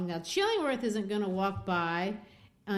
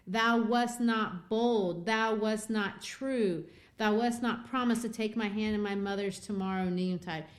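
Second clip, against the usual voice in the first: calling him out; 3 semitones higher, 5 dB louder than usual. Retold or imitated. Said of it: "She calls him out".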